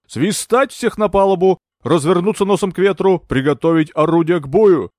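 a delirious captain shouting orders to his crew; commanding shout. Acted. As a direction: call the crew to battle stations. Captain barking battle orders.

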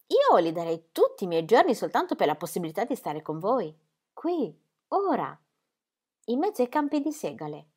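put-on a young woman swept up in the evening's magic; Ingeborg's voice. Ingeborg's reply, voiced higher. (giovane donna rapita, voce appena più acuta)

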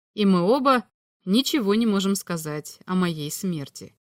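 ordinary delivery, nothing marked

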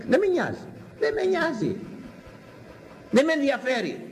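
high-pitched insistent shrugging-off; emphatic dismissal. Real, not acted. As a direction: wave them away, voice pitched right up. Dismisses those who stay away.

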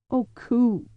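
reach out to him gently; Cordelia tender. A narrator's reading. Tender address.

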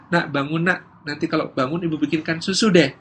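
lightly acted wake-up with an offer; ordinary-volume coaxing of a sleeping child; bargaining mother. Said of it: "Yang pertama". (ibu membujuk anak bangun)

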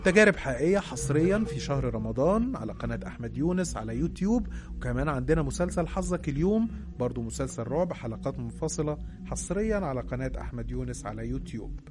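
channel promo read with sweeping intonation; promo announcer. Acted. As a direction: sell the show like a radio announcer. Recorded-style promo for the channel.

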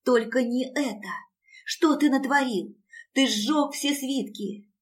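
shocked, rising outcry; horrified cry. A narrator's reading. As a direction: cry out in dismay, slowing at the end. Alisa sees the tower burnt.

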